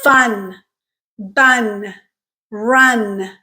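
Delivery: fun, bun, run with the vowel rising then falling; rise-fall vowel. Shown as a demonstration. Teacher demonstrates the stressed vowel inside words, curved pitch. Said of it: "how the pitch changes over the duration of that vowel".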